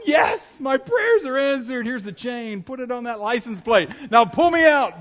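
loud and high, hammed-up cry for rescue; mock desperate shout. Stranded driver hails a moped, hammed-up shout. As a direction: yell it like the rescue finally came.

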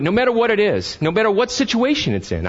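rising fervor. Real, not acted. Rising sermon intensity.

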